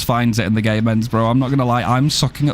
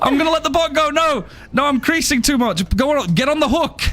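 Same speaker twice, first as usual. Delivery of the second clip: laughing hard; 13 semitones higher than usual. Real, not acted.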